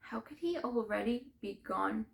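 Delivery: grieving question, held in. Acted. First, stunned take of the question.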